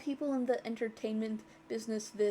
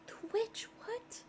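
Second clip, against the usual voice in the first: sick voice; 11 semitones higher, 8 dB quieter than usual. Acted. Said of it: "I was trying to make my voice sound a bit sick".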